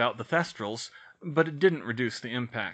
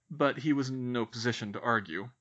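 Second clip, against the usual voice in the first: plain reading voice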